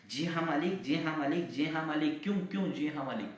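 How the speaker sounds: high, loud stuttering repeats; angry stammer. Acted. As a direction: stammer with rage. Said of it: "वो तुतलाने लगते हैं".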